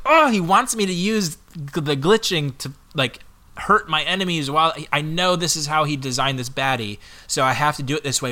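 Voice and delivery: replayed frustration with a groaned start; frustrated. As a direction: act out a gamer's mounting annoyance. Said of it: "I was getting so frustrated".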